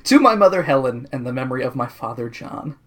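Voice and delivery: a touch of sadness, softening; sad. Shown as a demonstration. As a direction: read the dedication gently sad. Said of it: "then I got sad".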